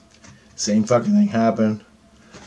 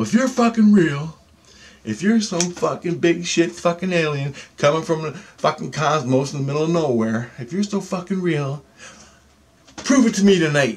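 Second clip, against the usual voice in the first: mock yelled dare; 4 semitones higher than usual. Daring the alien to show up tonight, mock yelling. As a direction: retell an angry rant at the wall. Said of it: "I'm just fucking yelling to the fucking wall".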